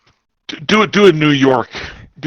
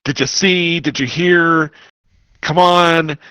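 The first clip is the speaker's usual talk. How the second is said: higher, eager questions with some doubt; excited, uncertain; 5 semitones higher, slower than usual. Acted. Player acting out a look back at Met, excited and uncertain. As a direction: urge a companion on, excited but unsure. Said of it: "excited, uncertain".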